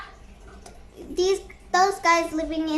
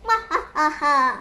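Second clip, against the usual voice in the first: acted laugh; 4 semitones lower than usual. Character laughs while telling story.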